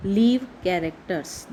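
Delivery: said very slowly, word by word; slow dictation. Shown as a demonstration. Teacher reading the script to the class, slow and deliberate. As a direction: spell the phrase out slowly for the class. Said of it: "जैसे वो दोनों ही live characters हों".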